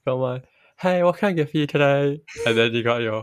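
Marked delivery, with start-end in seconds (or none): 0.8-2.2 bright, higher friendly server greeting; chirpy shop counter voice; customer service voice. Retold or imitated. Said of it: "you've got your customer service".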